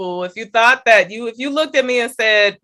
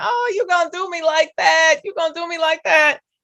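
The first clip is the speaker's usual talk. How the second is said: mock chuckling, amused, high, laughing through the words; 7 semitones higher than usual. Retelling a driver pulling in front: imitating own laughing speech. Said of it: "I started laughing".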